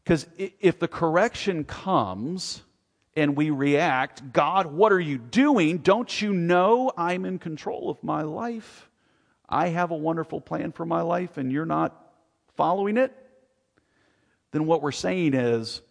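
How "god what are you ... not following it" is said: indignant protest. Retold or imitated. Preacher voicing a believer railing at God, indignant. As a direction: rail at God as if he's wronged you.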